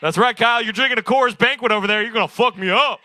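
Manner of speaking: loud, high crowd hype; hyped shout. Real, not acted. Comic shouting at Kyle over his beer, loud hype. Hyping up audience member Kyle.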